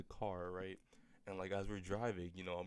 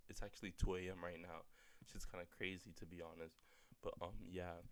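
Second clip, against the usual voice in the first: much softer, apologetic late-night volume; hushed; 10 dB quieter than usual. Real, not acted. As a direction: drop your voice so nobody wakes up. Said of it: "I'm sorry".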